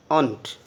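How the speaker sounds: aunt as one syllable, no ending ee; correct pronunciation. Shown as a demonstration. Teacher telling class to say aunt. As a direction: clip it to aunt, not auntie. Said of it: "not auntie".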